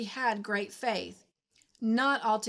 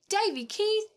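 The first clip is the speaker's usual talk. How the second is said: high, loud startled exclamation; shocked outcry; 12 semitones higher, 4 dB louder than usual. Acted. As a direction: burst out his name in alarm. Anne shocked by the toad.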